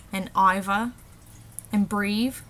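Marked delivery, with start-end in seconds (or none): 0.4-0.9 "iver" said with a v where th would be; Cockney v for th. Shown as a demonstration. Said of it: "T H is changed to a V". 1.9-2.4 "breave" ending in a v sound instead of th; Cockney v for th. Shown as a demonstration. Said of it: "T H is changed to a V".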